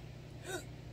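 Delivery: sudden sharp hiccup; a small involuntary hiccup. Real, not acted. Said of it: "Why do I have the hiccups?".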